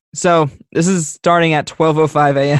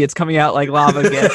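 Melissa McCarthy quote; 4 dB louder than usual. Retold or imitated. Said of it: "you send the Melissa McCarthy".

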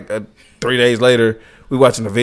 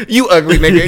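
laughing mock insult; 5 semitones higher, 4 dB louder than usual. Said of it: "she grabbing me".

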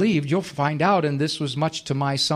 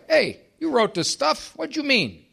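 eager reader voice; 10 semitones higher than usual. Acted. Reader asking the dead author what he meant, higher and eager. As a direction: play the puzzled reader asking the author straight out.

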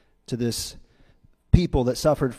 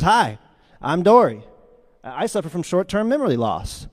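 bubbly, bouncy cartoon greeting with lifted pitch; chirpy introduction, punched on the name; Dory; 4 semitones higher, 3 dB louder than usual. Dory introducing herself to Marlin, chirpy. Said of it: "she comes up and she says".

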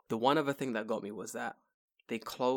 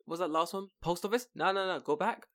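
mock incredulous double-take; 6 semitones higher than usual.

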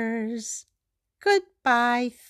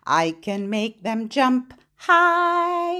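voice up high; 4 dB louder, slower than usual. Shown as a demonstration. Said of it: "Lift your hands up high".

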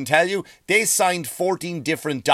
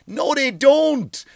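emphatic no; 10 semitones higher, 4 dB louder, much slower than usual. Real, not acted. Rebuttal, high and slow.

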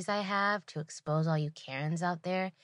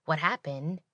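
complaining customer. Retold or imitated. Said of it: "she immediately, you know, complained that".

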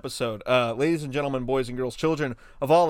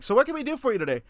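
store clerk voice; 10 semitones higher, much faster than usual. Pretend. Mock paint store clerk.

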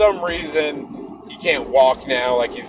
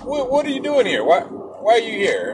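higher, fast startled questions; surprised friend; 8 semitones higher than usual. Retold or imitated. Friend startled to see him at the door, higher and fast. Larry voiced asking why he came.

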